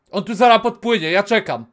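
usual speaking voice

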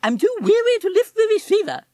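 high affected toff complaint; languid posh parrot. Acted. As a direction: play a bored upper-class twit. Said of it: "said Fweddy".

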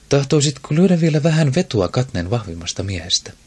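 queen Nemone teasing a noble about his bet. A narrator's reading. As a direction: needle him with a sly question.

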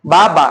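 "বা, বা" split into two distinct beats; syllable by syllable. Shown as a demonstration. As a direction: separate each syllable of "বা, বা". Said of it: "একসাথে যদি উচ্চারণ করতে যাই".

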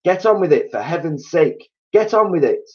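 high, urgent rallying cries; bossing everyone along in a frantic hurry; frenzied excitement. A narrator's reading. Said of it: "in a frenzy of excitement".

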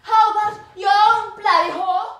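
loud enraged outburst; furious shout. Acted. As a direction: scream it back at him. Wife retaliates, shouting.

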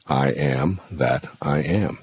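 slow, solemn words of God; slow mantra. Shown as a demonstration. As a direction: draw out each word reverently. Mantra said slowly.

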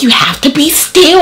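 high, firm nurse voice; stern nurse. Retold or imitated. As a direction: tell the patient to hold still. Nurse voiced in retold story.

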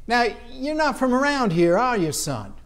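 a hint of an old Savannian local; lightly voiced old-timer questioning a newcomer. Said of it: "I'm talking old Savannians asking me".

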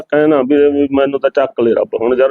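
on the verge of crying; weepy, worn-down lament; tearful despair. Acted. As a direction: plead hopelessly through tears. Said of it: "ਨਾ ਰੋ ਨਾ".

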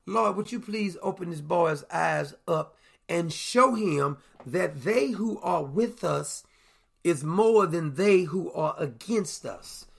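slow, calm, steady plea; calm prayer. Acted. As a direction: let Elijah pray unhurried and sure. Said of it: "And Elijah very calmly".

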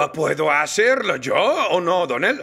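mock British accent on request. Shown as a demonstration. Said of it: "puedes hacer un acento británico".

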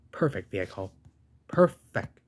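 enthusiastic praise. Real, not acted. Praising the vehicle's design.

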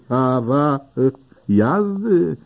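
wyższy, przeciągnięty, niedowierzający ton; oburzone zdziwienie. A narrator's reading. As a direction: udawane oburzenie, wolniej, z pytaniem. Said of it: "oburza się Den". (Dan oburza się na prośbę o prawo jazdy)

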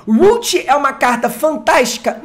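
usual speaking voice

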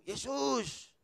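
mock desperate plea to the pastor; crying out for help. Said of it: "wanita datang berseru".

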